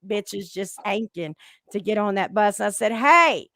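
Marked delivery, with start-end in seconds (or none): 2.9-3.5 higher and louder, the last words slowed and stretched; a teasing yell that climbs and slows as it goes; mocking shout. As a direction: call out to the crowd, building into a big drawn-out yell. Retold calling out to groupies.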